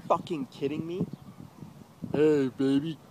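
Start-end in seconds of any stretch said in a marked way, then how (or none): 2.1-3.0 sleazy mock pickup. Mocking troll's pickup line.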